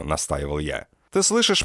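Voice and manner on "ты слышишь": Mandy's shrill shout. A narrator's reading. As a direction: yell it up high and sharp like a trashy girlfriend. Mandy voice held.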